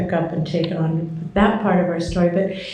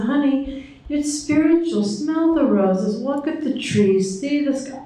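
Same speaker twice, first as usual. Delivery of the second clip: gentle explanation; 6 semitones higher than usual. Retold or imitated. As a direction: ease the words out like telling a secret. Husband gently explains the point.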